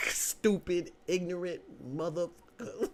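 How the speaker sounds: high laughing insult; giggly put-down. Real, not acted.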